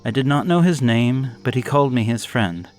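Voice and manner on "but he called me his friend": ordinary delivery, nothing marked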